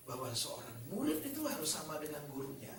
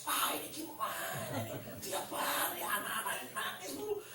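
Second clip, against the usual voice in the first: mock stressed teacher; 4 semitones higher than usual. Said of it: "gurunya stres".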